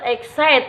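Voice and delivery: "excite" with the weight on CITE; stress on second syllable. Shown as a demonstration. Teacher repeating the example for viewers, exCITE stressed at the end. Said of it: "stress on second syllable".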